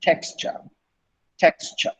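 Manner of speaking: "Texture" breathed voiceless; whispered "texture". Shown as a demonstration. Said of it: "I didn't say texture".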